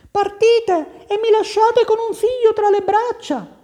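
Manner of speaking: very high, loud lady's complaint; reproachful wife. Acted. Wife reproaches departing husband. (moglie che protesta, voce acutissima)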